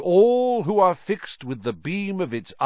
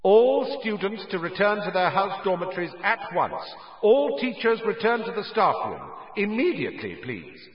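high, booming announcement over the school; a stern teacher's magnified voice echoing through corridors; McGonagall magnified; 8 semitones higher than usual. Acted. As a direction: call it out as if magically amplified. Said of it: "McGonagall's voice, magically magnified".

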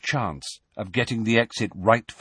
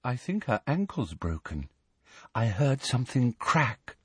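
whispered; 6 dB quieter than usual. A narrator's reading. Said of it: "whispered Luna".

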